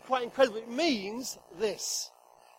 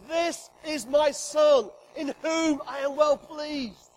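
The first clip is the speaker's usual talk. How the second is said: voice of God; 2 semitones higher, 3 dB louder, slower than usual. Acted. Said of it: "And God says".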